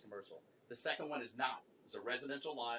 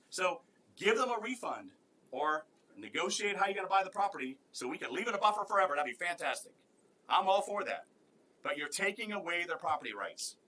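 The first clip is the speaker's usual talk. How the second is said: heated, louder and higher; fired up over treatment he calls unfair; impassioned protest in a raised voice; emotional; 4 semitones higher, 4 dB louder than usual. Real, not acted. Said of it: "and I'm emotional because I can't stand government".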